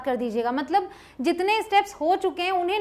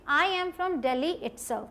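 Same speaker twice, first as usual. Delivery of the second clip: slow model sentence; 4 dB quieter, much slower than usual. Shown as a demonstration. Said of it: "तो मैं बोलूँगी".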